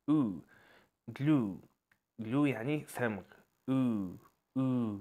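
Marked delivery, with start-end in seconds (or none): 4.6-5.0 او with lips pushed round into a long oo. Shown as a demonstration. Teacher shows the oo sound with rounded lips. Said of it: "بضم فيها بق شوية".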